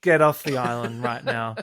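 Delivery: laughing, bossy mock eviction; hammed-up dismissal; mock telling-off. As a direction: order her off the island through a laugh. Acting JLP snap eviction.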